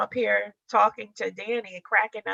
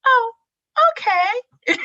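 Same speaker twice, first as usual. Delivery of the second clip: laughing okay; 13 semitones higher, 8 dB louder, slower than usual. Real, not acted. Laughing at Danny's reply.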